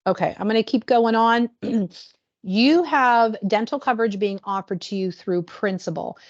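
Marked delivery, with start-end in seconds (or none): 2.5-6.2 "Principal" named with extra weight; stress on Principal. Shown as a demonstration. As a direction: lean on "Principal" so it sticks. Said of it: "why do I stress the word Principal".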